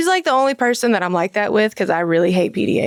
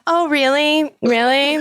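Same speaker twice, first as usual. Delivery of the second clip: higher-pitched feigned interest; mock surprise; 5 semitones higher, slower than usual. Nurse answering a drug-seeking patient, mock surprise. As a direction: play doubtful of the patient's story.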